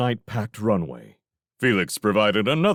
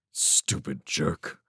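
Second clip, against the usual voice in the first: slow, softer grumble; muttered contempt; 4 semitones lower, 5 dB quieter, much slower than usual. A narrator's reading. Felix alone after cutting off Railsmith, muttering in disgust. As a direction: mutter the insult under your breath.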